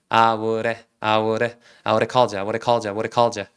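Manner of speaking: "I would have" merged into "ah-woo-reh"; low, even repeats of "I would have called you" as "ah-woo-reh-call-jya"; easy linked pronunciation. Shown as a demonstration. Teacher drilling the reduced pronunciation, then adding "called you". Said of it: "이렇게 보시면 돼요".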